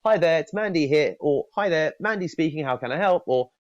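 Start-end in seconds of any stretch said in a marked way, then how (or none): 0.0-1.2 lightly voiced chirpy receptionist; a hint of a phone greeting, raised. Receptionist answering the phone, a light chirpy greeting. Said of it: "someone who answers the phone and says". 1.6-3.2 lightly voiced chirpy receptionist; a hint of a phone greeting, raised. Receptionist answering the phone, a light chirpy greeting. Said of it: "someone who answers the phone and says".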